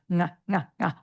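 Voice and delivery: "nga" with the ng of sing at the start, no G; over-enunciate the velar ng; ng drill. Shown as a demonstration. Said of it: "over enunciate the word sing".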